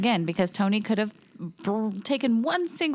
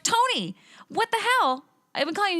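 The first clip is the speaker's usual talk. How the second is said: mock exasperated call; 10 semitones higher than usual. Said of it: "I was like".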